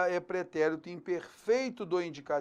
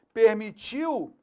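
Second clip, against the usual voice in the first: "permitiu" slowed and a bit higher; stressed verb; 4 semitones higher, 4 dB louder, slower than usual. Shown as a demonstration. Teacher reading option D, marking "permitiu" slowly. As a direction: dwell on "permitiu" for the class. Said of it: "pretérito perfeito do indicativo".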